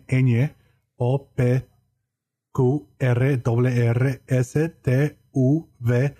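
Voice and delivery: reciting "A, B" through "Z" with Spanish letter names, one by one; Spanish alphabet. Shown as a demonstration. Podcaster recites the Spanish alphabet for his cohost, Spanish letter names. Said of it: "run through you what the S-, Spanish alphabet sounds like".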